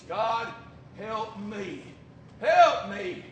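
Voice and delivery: help me, swelling into a cry on the last; desperate plea. Shown as a demonstration. Preacher crying out for help for the flock. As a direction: beg God out loud. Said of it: "It means".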